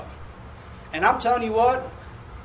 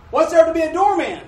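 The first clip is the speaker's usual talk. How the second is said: incredulous question; 8 semitones higher, 7 dB louder than usual. Retold or imitated. Mocking coworkers' disbelief.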